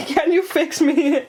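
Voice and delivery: high, loud squeaky echo. Pretend. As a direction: squeak it back like a toy.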